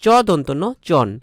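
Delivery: চন said as chon, with চ and দন্ত ন named first; sounding out chon. Shown as a demonstration. Teacher to students, sounding out চন. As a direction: spell then say চন. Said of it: "এর উচ্চারণ হবে চন".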